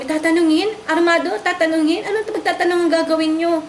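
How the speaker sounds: a wife challenging the police, sharp and incredulous; incredulous retort. Retold or imitated. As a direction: throw their words back in disbelief.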